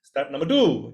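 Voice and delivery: ordinary talk, nothing marked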